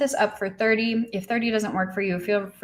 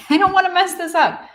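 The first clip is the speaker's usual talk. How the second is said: anxious squeak; 11 semitones higher, 8 dB louder than usual. Real, not acted. Nervous about mispronouncing viewer's name.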